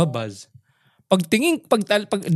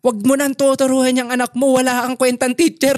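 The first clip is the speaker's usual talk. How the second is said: mildly angry scolding, pitched higher; retold angry mother; 6 semitones higher than usual. Angry mother scolding father over his tutoring, retold angrily. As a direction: imitate an angry mother's telling-off, voice raised in pitch. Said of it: "si Mama galit na galit".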